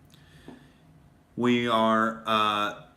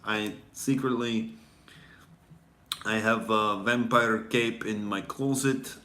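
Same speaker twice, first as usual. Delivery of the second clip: mock vampire villain; slower than usual. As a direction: confess the evil plan. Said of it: "I'm actually Vladimir Putin".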